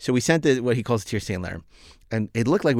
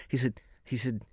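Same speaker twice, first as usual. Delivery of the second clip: whisper; 8 dB quieter than usual. Retold or imitated. Retelling Shatner's phone call.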